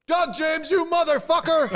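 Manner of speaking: high, loud mock yell across the street; laughing mock shout. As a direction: holler it like a stranger spotting a friend. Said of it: "somebody off the street says".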